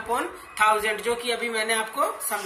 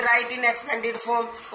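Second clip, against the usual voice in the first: slow question reading; much slower than usual. Shown as a demonstration. Quotes the textbook question wording.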